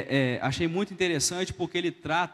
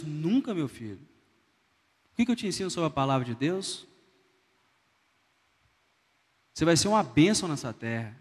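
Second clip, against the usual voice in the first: reassuring mother. Retold or imitated. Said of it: "A mãe temente a Deus".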